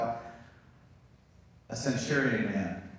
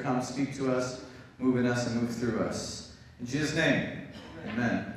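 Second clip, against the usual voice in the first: prayer. Acted. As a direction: pray gently over the congregation. Pastor leads opening prayer.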